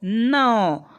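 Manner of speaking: नौ with a clear n and a drawn-out au; teacher's careful नौ; sounding out nau. Shown as a demonstration. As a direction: model नौ for the pupils. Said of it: "उसका उच्चारण हो गया".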